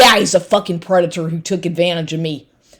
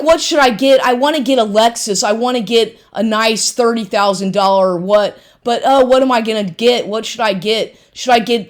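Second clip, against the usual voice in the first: mocking imitation; 2 semitones higher than usual. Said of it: "he's like".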